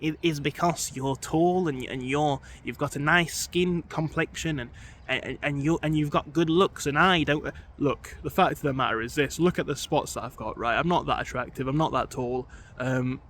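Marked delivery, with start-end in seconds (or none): 0.0-7.5 stammering whiny nerd; lightly voiced nerdy guy. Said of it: "we're gonna have to use a nerd voice for this one".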